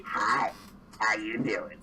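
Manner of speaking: low, smooth come-on; lecherous creature chatting someone up; flirting mimic. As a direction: pitch it down for a suggestive greeting. Mimic leers at Misfit.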